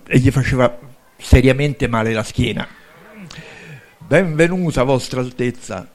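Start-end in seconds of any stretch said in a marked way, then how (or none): 4.1-5.9 saluto a fatica, sempre più piano; affaticato. Acted. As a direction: greet while straining to get up, voice dropping. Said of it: "si rialza faticosamente". (affaticato, con la schiena dolorante)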